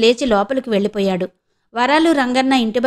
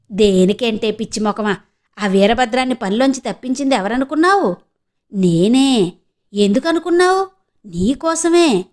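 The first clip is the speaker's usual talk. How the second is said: teasing scold. Acted. Sister scolding, revealing secret. (ఆటపట్టిస్తూ తిడుతూ)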